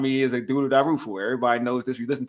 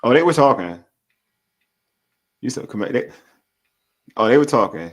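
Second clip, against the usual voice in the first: louder, hyped-up reaction; excited; 8 dB louder than usual. Real, not acted. Co-host hyping the team talking back, excited and loud.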